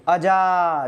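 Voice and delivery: अजा read out slowly, every sound drawn; slow teaching demo of अजा; slow careful reading. Shown as a demonstration. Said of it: "तो पढ़िए".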